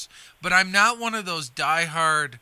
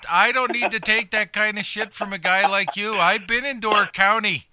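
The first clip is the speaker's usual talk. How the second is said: louder, higher, playful protest; mock indignation; 5 semitones higher, 6 dB louder than usual. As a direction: fire back in a hammed-up huff. Mock quarrel over local credentials.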